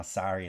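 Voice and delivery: "sorry" with an open AH, as "sah-ree"; Minnesota "sorry". Shown as a demonstration. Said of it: "that sounds like Minnesota".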